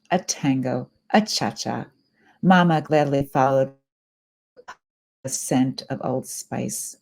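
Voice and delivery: measured poetry reading with phrase-by-phrase pauses; line starts lifted, endings falling away; poem reading. Acted. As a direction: read it as verse, letting each line settle. Reads a poem aloud.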